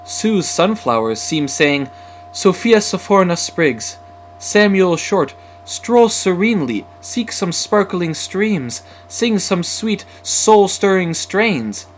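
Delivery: loud, high, ringing declaration; sudden eager speech. A narrator's reading. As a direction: burst out boldly after being tongue-tied. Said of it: "swiftly speaking, Sam said".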